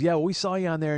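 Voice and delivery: lightly voiced neighbor lady, high and loud; Dottie. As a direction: pitch it up as a chatty woman. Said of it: "She goes".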